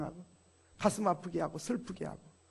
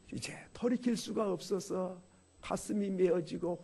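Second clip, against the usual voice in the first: 속삭임; 7 dB quieter than usual. Acted. 후회하는 임종 직전 사람의 말.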